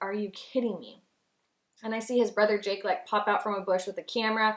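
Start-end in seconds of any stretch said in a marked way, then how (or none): 0.0-1.0 acted, overwhelmed, stunned, disbelieving exclamation. Retelling stepping out and seeing the surprise: retelling losing it, overwhelmed. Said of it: "I lost it".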